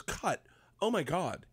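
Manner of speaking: high mock yell, held back; retold yell. Actress stops the scene, appalled mock yell. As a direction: imitate an appalled shout without full volume. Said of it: "And then she yells".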